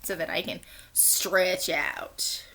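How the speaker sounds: soft unvoiced whisper. Real, not acted. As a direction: whisper it to yourself. Whispered aside while reading.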